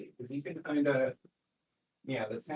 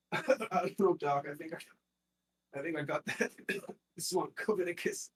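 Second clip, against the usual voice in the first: high, weak sickly patient; sick man voice; 7 semitones higher than usual. Acted. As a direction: croak like a swamp-sick villager.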